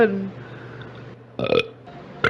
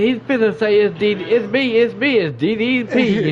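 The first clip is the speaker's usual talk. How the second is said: higher, teasing grand reveal; playful mock reveal; 3 semitones higher than usual. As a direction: ham up a big entrance reveal, a touch higher. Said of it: "I felt like saying".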